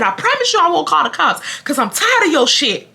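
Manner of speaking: high-pitched re-enacted challenge; retold yelling. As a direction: act out calling someone out. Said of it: "I'm yelling".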